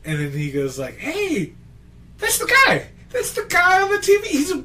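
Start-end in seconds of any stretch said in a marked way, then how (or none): 1.0-4.5 very high, loud mock-drunk squawk; drunk barfly. Drunk spots the guy from TV, hammed-up drunk yelling. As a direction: play an outraged drunk, breaking into laughter by the end. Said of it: "was the drunk at the corner".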